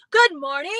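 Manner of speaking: a short, brisk "Good morning" said in about half a second; quick greeting. Shown as a demonstration. Showing viewers how little time a greeting takes, quick and brisk. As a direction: snap it off fast. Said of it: "Let's make a long one".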